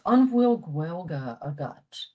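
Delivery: slow, deliberate Irish pronunciation of "An bhfuil Gaeilge agat?"; teaching voice, each Irish word set out clearly; careful Irish phrase. Shown as a demonstration. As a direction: say "An bhfuil Gaeilge agat?" slowly, as a model for learners. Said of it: "So they would ask".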